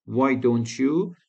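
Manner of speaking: drawn out very slowly, rising at the end; slow suggestion. Shown as a demonstration. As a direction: spell out "Why don't you" slowly. (آهسته و کشیده، با لحن پیشنهاد)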